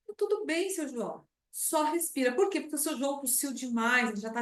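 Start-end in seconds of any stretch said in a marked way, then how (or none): 0.1-2.3 reassuring. Shown as a demonstration.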